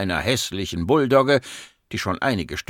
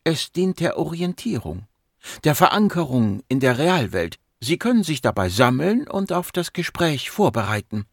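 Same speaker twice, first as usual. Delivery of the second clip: higher-pitched, composed woman doctor; patient psychiatrist; 5 semitones higher than usual. Acted. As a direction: explain it calmly and professionally. (ruhig erklärende Psychiaterin)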